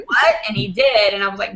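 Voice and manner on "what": squeaks a much higher, louder "What?"; a sudden jump of disbelief; shocked what. Retold or imitated. Retelling being called out, stunned and high. Retold disbelief on stage call.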